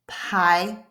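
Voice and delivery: "Pie" whispered with a voiceless p. Shown as a demonstration. Teacher contrasting pie and bye by voicing. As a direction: breathe "Pie" with no voice. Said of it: "when to whisper".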